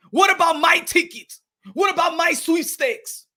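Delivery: put-on aggrieved, accented complaint; Makabu. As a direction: protest like a cheated contender.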